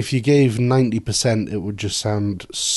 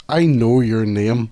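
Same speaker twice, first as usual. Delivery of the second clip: slow, put-on Northern Irish voice; mock Northern Irish accent; slower than usual. Trading bad accents with the co-host, mock Northern Irish. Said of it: "Northern Irish accents".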